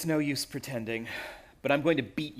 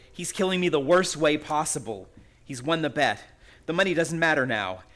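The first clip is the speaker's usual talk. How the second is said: despairing outburst; 4 dB louder than usual. Acted. Framed man cries out his despair to Betty. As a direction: voice rising in desperation.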